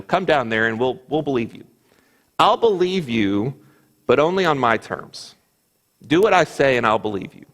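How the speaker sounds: pushy conditional challenge, rising on I'll believe you; a hint of a scornful ultimatum; mock ultimatum. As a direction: lay down your terms like a smug priest. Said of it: "it sounds kinda like an ultimatum".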